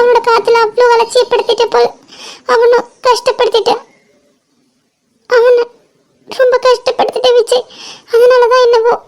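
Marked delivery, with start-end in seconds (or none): 1.8-7.7 a sob in the words; crying. Acted. Tells Vijay how she hurt him, crying. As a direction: admit it through tears. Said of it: "அழாத".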